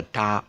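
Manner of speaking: TOWER as one gliding triphthong, ta-uh. Shown as a demonstration. Teacher showing the triphthong in tower, careful demonstration. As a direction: say "tower" gliding through all three vowel sounds. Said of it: "it's actually a triphthong".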